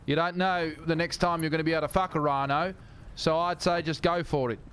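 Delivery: put-on South African accent; South African ranger. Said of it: "like, ranger".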